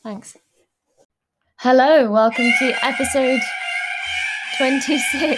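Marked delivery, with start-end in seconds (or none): 1.6-5.4 loud, bright host announcement; loud show intro. Acted. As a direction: announce the show at full volume. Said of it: "I only pressed that once".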